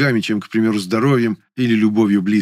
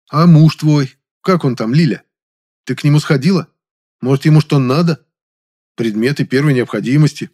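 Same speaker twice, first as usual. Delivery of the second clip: louder, heated scolding; flaring up; 6 semitones higher, 6 dB louder than usual. A narrator's reading. Narrator scolding Lilya, loud and exasperated. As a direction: pile the questions on him, hot and loud. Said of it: "И я тоже вспылил".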